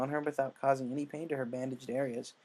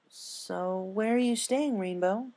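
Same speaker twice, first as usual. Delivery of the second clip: curious friend voice; 8 semitones higher, much slower than usual. Acted. Twilight asks.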